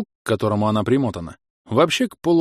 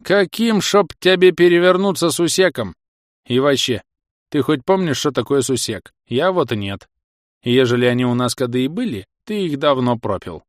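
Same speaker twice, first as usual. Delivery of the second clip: nagging village granny; scolding old woman. Acted. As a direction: scold him like a cranky old wife. Old wife scolds husband. (ворчливая старуха)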